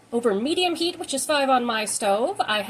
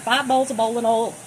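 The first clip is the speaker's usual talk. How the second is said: Southern accent; 3 dB louder than usual. Shown as a demonstration. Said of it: "in a Southern accent".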